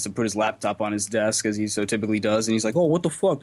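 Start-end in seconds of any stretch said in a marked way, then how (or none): 2.8-3.4 higher-pitched mock puzzlement; retold baffled exclamation; acted bewilderment. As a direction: imitate an irked roommate's surprise. Acting roommate finding salt shaker.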